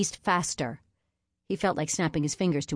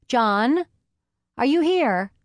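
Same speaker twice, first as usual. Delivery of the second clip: higher, louder woman calling in; calling out, female voice; 9 semitones higher, 7 dB louder, slower than usual. A narrator's reading. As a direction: call into the room for him.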